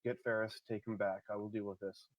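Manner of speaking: soft, low aside; whispered order. Acted. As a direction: murmur the order over your shoulder. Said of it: "I'm gonna whisper to her".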